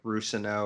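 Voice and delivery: "Rusano" as ROO-suh-no; "Rusano", first syllable stressed; own pronunciation. Shown as a demonstration. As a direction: say "Rusano" with a long oo up front and a weak middle. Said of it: "how I was pronouncing it in my head".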